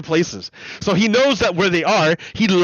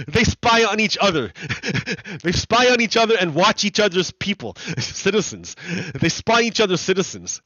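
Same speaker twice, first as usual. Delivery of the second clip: amused, laughing; 3 semitones higher than usual. Real, not acted. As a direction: keep cracking up between phrases. Cracking up at the spying loophole.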